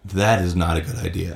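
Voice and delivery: lightly voiced drunk menace; low, dead-serious warning. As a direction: look him dead in the eye and warn him. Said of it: "and I go".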